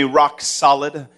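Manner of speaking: rock solid, drawn out slow for the crowd; slow call to repeat. Shown as a demonstration. Pastor leading the crowd in a slow call, drawn out. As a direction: lead the congregation slowly. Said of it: "say with me".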